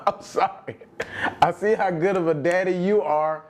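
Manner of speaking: giggling through her words; laughing mock apology. Friend mocking the woman's excuse, laughing. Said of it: "That's what she said".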